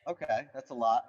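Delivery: echoing like in a cave; mic picking up room echo; echoey cave sound. Real, not acted. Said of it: "You sound like you're in a cave".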